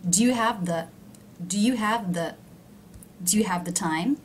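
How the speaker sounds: "the" kept low and light, "time" rising at the end. Shown as a demonstration. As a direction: repeat it, "the" stays low. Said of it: "is low in pitch".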